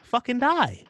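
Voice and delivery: high, loud blurted answer; shout. Pretend. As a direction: yell it out high.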